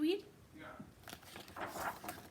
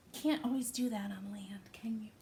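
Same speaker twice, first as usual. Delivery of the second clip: whisper; 5 dB quieter than usual. Real, not acted. Aside to children.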